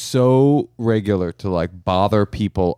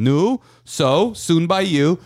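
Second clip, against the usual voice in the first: nagging relative; 8 semitones higher, much slower than usual. Retold or imitated. Relatives at weddings nagging about marriage, high and prodding. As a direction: pester him like an old auntie at a wedding. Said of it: "people were coming up to him and going".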